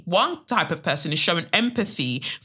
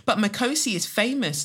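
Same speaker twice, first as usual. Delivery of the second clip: lightly acted, higher-pitched protest; dismissive friends; 4 semitones higher than usual. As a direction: lift it into a mildly mocking quote. Voices dismissive friends in poem.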